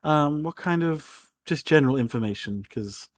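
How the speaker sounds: a theatrical aristocrat overjoyed to see a guest; gushing lady. Acted. Lady Torrell answers.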